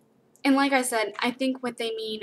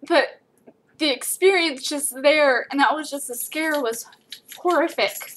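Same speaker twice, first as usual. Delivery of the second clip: raised, choked-up voice holding back tears; teary-eyed; 4 semitones higher, 4 dB louder than usual. Real, not acted. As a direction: speak through real tears. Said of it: "sorry I'm getting teary-eyed".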